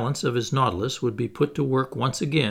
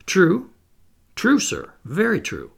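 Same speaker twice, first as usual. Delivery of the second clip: high and loud, more eager each time; growing excitement; 8 semitones higher, 5 dB louder than usual. A narrator's reading. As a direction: build the excitement word by word. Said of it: "I replied with growing excitement".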